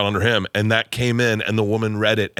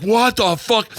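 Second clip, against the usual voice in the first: raised-pitch mock dad outrage; retold incredulous outburst; 9 semitones higher, slower than usual. Dad receiving a plaque for son's spending, mock outrage. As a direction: imitate dad's disbelief, pitched well up.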